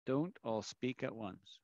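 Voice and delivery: dry teacher sarcasm after a silent class; sarcastic. Shown as a demonstration. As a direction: say it drily to a quiet room. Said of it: "I'm being completely sarcastic".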